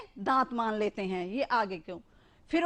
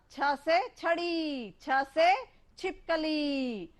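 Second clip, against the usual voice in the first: slow alphabet recital; much slower than usual. Shown as a demonstration. Reciting alphabet words to children.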